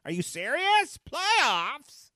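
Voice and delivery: high, loud, disbelieving coach; stunned press-conference outburst; Jim Mora rant. Retold or imitated. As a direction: bark it out like the incredulous coach. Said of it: "you remember Jim Mora".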